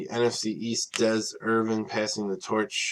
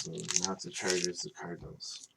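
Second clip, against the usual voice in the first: words stretched through a tired yawn; half-whispered mid-yawn, worn out after a long day; 3 semitones lower, 9 dB quieter than usual. Real, not acted. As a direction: yawn your way through the correction. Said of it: "sorry for the yawning".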